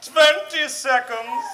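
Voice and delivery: slow, high countdown call; slow announcement in a witch voice. Acted. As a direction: draw out each word with suspense.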